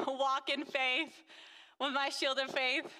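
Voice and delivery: fighting back tears; real tears. Real, not acted. Moved during a faith testimony.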